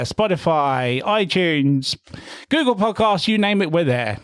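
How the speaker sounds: lightly put-on radio presenter; a hint of podcast promo patter, key words lifted. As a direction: give it your radio voice. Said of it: "Shall I do the radio voice?".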